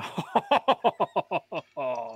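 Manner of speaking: low sinister cackle; evil laugh. Pretend. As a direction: cackle like a cartoon villain. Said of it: "momento da risada maligna".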